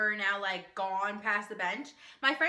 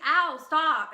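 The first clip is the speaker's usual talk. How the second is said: mock yelp, higher and louder; pinched protest; 4 semitones higher, 6 dB louder than usual. Friend pinched mid-conversation, mock pained protest.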